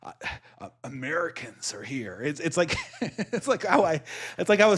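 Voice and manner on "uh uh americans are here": mock alarm. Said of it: "I'm like".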